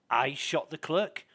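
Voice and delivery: slow, puzzled repeat of the question. Retold or imitated. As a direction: ask it slowly, not yet believing it. Suspect repeats accusation, puzzled.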